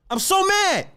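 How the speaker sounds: usual speaking voice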